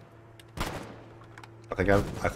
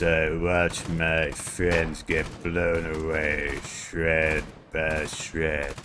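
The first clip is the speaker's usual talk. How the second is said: slow, haunted war veteran, drops to a whisper; shell-shocked soldier. Acted. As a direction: recall the horror slowly, then steel up. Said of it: "That's my interpretation".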